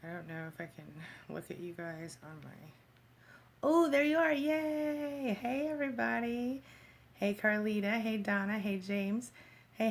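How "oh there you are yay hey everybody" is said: delighted. Real, not acted. Finally sees viewers on screen.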